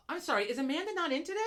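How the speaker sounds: clipped, pointed question; snippy retort. Retold or imitated. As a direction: let the irritation show. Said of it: "And I'm like".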